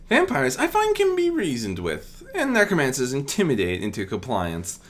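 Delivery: lightly voiced princess, cool and confident; Celestia's voice. Celestia explaining how she handles undead, lightly voiced calm confidence. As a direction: state it like a seasoned monster hunter.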